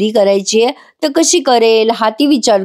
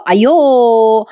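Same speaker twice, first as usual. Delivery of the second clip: mild mock yell; much slower than usual. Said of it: "जोरात ओरडतो".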